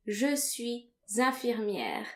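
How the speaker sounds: slow careful French: "Je suis infirmière" with the liaison; French pronunciation. Shown as a demonstration. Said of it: "but in French, you just say".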